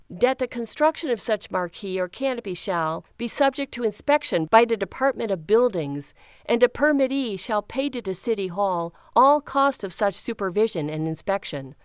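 put-on a light take on a Chicago accent with flattened vowels, reading dry legalese; lightly borrow a Chicago accent for the bylaw text; mock Chicago accent. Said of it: "Flattening his vowels, flexing his nasal muscles".

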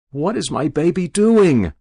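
high, worried demand; anguished mother. A narrator's reading. Mother rushing up to the kneeling rabbi, anguished. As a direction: demand it in maternal alarm.

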